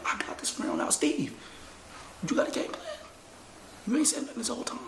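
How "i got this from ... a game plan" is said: unvoiced low whisper. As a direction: whisper it flat. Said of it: "people that whisper to me".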